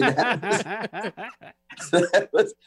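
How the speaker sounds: helpless laugh breaking up the words. Real, not acted. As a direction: crack up while trying to speak. Laughs at own bad playing.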